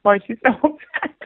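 high, baffled mock protest with a laugh; confused boyfriend. Confused boyfriend to playwright about his girlfriend, mock bafflement. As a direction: imitate a bewildered man, amused as you tell it. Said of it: "the poor guy was so confused".

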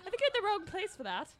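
British role slipping into giggles; laughing. Real, not acted. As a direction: stay in character while fighting laughter. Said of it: "'cause I was laughing".

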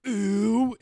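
long, high, loud mock "ooh"; imitated squeal at gross food; drawn-out exaggerated cry of revulsion; mock disgusted ooh. Mimicking reaction to gross food.

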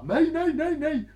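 high, loud squealing no, no; panicked protest. Retold or imitated. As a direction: shriek it out in panic with a laugh. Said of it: "han bara". (hög, panisk protest med skratt)

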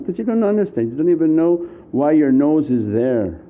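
usual speaking voice

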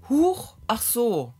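slow, dismissive little huch, ach so; mock offhand cashier. Retelling the cashier's careless reply, in a slow mocking voice. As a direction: toss it off like it doesn't matter. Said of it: "Und die hat dann nur gesagt".

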